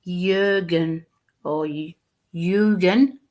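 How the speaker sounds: slowed pronunciation. Retold or imitated. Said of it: "he's doing this now for me to understand".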